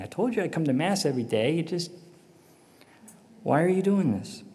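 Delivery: builds from a muttered complaint to a near-cry at God; rising anguished plea. Retold or imitated. Husband in church pleading with God, rising frustrated plea.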